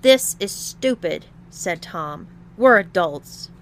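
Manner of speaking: loud exasperated protest; angry. Acted. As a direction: snap back. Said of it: "angry protest".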